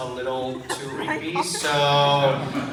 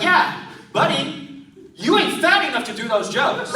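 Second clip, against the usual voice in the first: 1 big guy; 9 semitones higher than usual. Retold or imitated. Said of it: "he was like".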